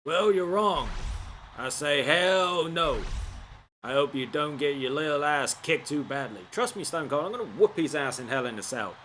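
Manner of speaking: lightly voiced Stone Cold, barely changed; a hint of a gruff wrestler trash-talking. Gamer doing a weak Stone Cold trash-talk impression. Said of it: "Not a good Stone Cold voice".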